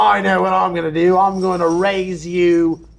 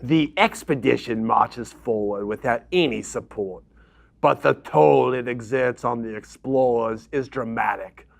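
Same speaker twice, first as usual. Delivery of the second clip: low, measured narrator voice; story narration; 6 semitones lower, 4 dB quieter than usual. Acted. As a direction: read it like a chronicle. Reads event card narration.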